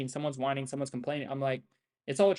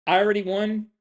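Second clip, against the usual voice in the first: emphatic restatement; 5 semitones higher, 7 dB louder than usual. Shown as a demonstration. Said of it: "That's what I'm saying".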